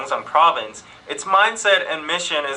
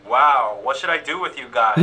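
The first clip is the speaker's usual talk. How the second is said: sarcastic; 3 semitones lower than usual. Shown as a demonstration. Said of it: "it would be a sarcastic".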